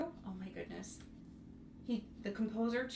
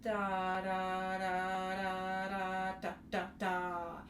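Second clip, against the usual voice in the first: spoken staccato rhythm; much slower than usual. Shown as a demonstration. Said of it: "I want you to even say that".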